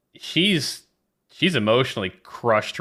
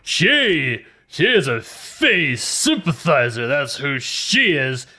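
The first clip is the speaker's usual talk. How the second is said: higher and louder, pompous and indignant; indignant Galago; 5 semitones higher, 4 dB louder than usual. Acted. Galago to Sherman, indignantly denouncing Lily. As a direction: denounce her like a zealot.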